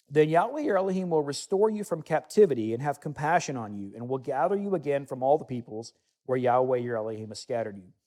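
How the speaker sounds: solemn bible reading from the pulpit; scripture reading. Acted. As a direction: proclaim the verses to the congregation. Continues Deuteronomy reading.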